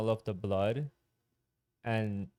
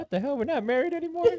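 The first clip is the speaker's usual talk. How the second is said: shocked disbelief; 4 dB louder, much faster than usual. Retold or imitated. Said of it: "And I was like".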